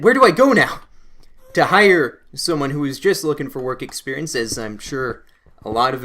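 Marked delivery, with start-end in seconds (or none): 0.0-0.8 yelped high and loud in a panic; sudden alarm. Real, not acted. Gamer panicking over the game, a sudden loud yelp. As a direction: jumps at a threat in the game.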